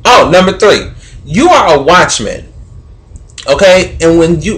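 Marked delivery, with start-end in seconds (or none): 1.2-2.5 "watchman" with the first syllable stressed. Real, not acted. Laying down the rule to the neighborhood watchman, stress on "watchman". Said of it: "emphasize the word watch".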